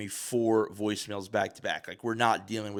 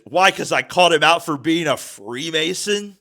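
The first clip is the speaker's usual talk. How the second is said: high, loud incredulous question; hammed-up indignant outburst; mock indignant challenge; 7 semitones higher, 9 dB louder than usual. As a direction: imitate an outraged neighbor, climbing at the end. Retells neighbor challenging the cop.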